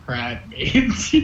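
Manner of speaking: low, soft murmur to himself, half-laughing; quiet whisper. Acted. George muttering to himself about crab, quiet mock whisper. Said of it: "George quietly whispers to himself".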